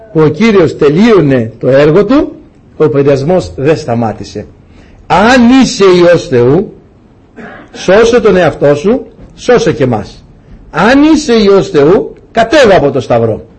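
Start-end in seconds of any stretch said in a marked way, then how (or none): 5.1-13.5 slow, drawn-out challenge; taunting mockers, words drawn out; acted taunt. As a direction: stretch it out like a mocking dare. Voices mockers challenging Christ on cross.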